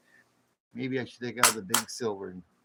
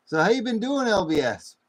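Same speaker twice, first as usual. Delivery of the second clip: excited greeting; 8 semitones higher, 8 dB louder than usual. Real, not acted.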